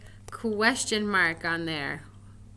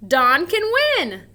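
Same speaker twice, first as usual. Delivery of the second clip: higher and louder, punch can; excited exclamation; 6 semitones higher, 10 dB louder than usual. Shown as a demonstration. Teacher to class, modelling an exclamation excitedly. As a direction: say it like you believe it. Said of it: "An exclamation ends with an exclamation mark".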